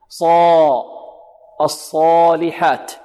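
صا held long with a full, heavy alif; الصالحات slowly, the alif after ص thick and heavy. Shown as a demonstration. Teacher showing students a heavy alif after a heavy letter, emphatic demo. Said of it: "إن كان ما قبلها مفخم".

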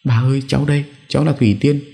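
high-pitched granddaughter, gently coaxing; gentle. A narrator's reading. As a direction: speak gently to a confused grandmother. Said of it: "nhẹ nhàng với bà". (giọng cháu gái nhẹ nhàng)

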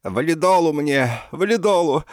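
loud, high, slowed plea; hammed-up dying. A narrator's reading. Professor theatrically begs for heart pills, loud and high. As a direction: gasp for your pills theatrically.

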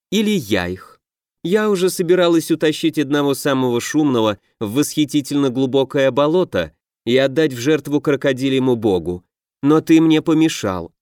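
lightly voiced playful witch, teasing the king; a hint of a mischievous old witch; the swamp witch needles the half-orc, lightly teasing; sly swamp witch. Swamp witch Shizulya speaking.

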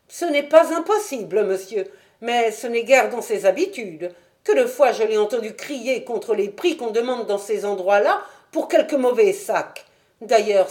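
a boatman's wife worrying about her husband; Mrs Smith. Acted. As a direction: fret aloud like an anxious wife. Landlady voiced by narrator.

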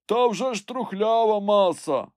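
high answering call; servant calling down. A narrator's reading. Climber answers master about the rot, high call.

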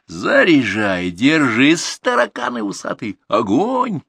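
high battle howl; yelled commands. A narrator's reading. Grandson shells the raiders with firecrackers, yelling orders. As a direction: bellow artillery orders over the din. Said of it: "вопль Артура перекрыл все звуки".

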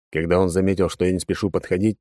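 usual speaking voice

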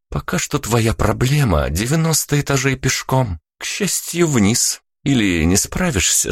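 playful dare; teasing young woman. A narrator's reading. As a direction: goad him about the stairs. Vika teasing about stairs.

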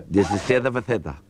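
slow toothless mumble. Acted. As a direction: say it slowly as if your dentures are out. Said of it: "se quita la dentadura".

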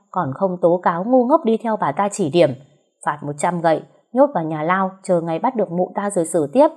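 cursing in anger. Acted. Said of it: "không kìm được chửi thề".

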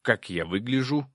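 mildly excited creature voice; excited demon. A narrator's reading. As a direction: ask eagerly as a little demon. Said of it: "взволнованно спросил Проныра".

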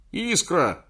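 high, loud cry of recognition; shout. A narrator's reading. Recognizing his old love, a loud joyful shout. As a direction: shout her name in sudden joy. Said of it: "закричал я".

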